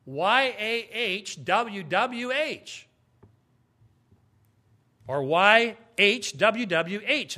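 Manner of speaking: letters spelled out one by one, very slowly; slow letter-by-letter spelling. Shown as a demonstration. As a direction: spell each letter deliberately. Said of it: "You need five letters".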